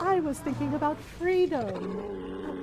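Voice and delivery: slow, lightly voiced Astarion; imitating Astarion. Astarion muses to her on freedom, slow mock voice. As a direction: drag the line out as he does. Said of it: "He was like".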